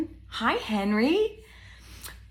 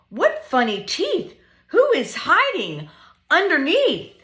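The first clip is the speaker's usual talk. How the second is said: lively, sing-song picture book reading; reading to children; 3 semitones higher, 6 dB louder than usual. Acted. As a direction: read it playfully to little ones.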